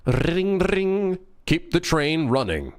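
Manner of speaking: high sing-song ringing, bell-like; sing-song train bells. Pretend. Dev pitching his game trailer, high sing-song chime.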